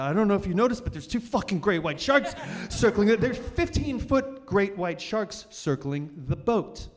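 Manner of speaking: acted frantic protest to the captain; retold panic. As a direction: blurt it out in mock panic. Acted frightened reply to captain.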